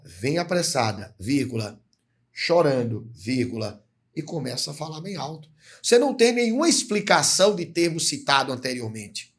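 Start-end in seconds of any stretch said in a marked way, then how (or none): 0.1-5.5 "vem apressada, vírgula, chorando, vírgula" with each comma named aloud; reading with pauses. Shown as a demonstration. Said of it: "Ó". (lendo devagar, marcando cada vírgula em voz alta)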